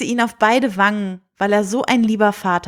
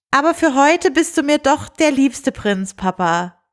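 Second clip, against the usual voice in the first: higher, affectionate teasing; fond princess; 5 semitones higher than usual. Acted. Princess teasing her father fondly, higher voice. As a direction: tease her papa lovingly.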